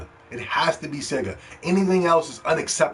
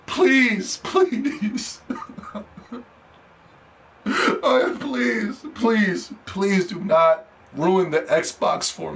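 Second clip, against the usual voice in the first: much higher, half-laughing pleading please; high whiny begging; 4 semitones higher, slower than usual. Real, not acted. Fan begging Xbox not to ruin it for him, high whiny pleading. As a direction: whine it like a desperate fan. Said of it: "I am begging you".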